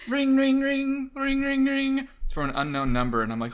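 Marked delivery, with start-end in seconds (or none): 0.1-2.1 high-pitched imitated ringtone; phone ringing. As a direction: trill it like an insistent phone. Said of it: "all of a sudden I hear".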